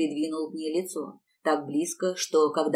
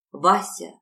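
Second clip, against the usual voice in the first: louder, pleading exclamation; pleading cry; 6 dB louder than usual. Acted. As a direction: beg him, crying out his name. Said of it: "умоляюще воскликнула Роза".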